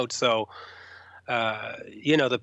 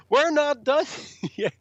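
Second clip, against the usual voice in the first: imitating a rock singer; 13 semitones higher than usual. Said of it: "He goes".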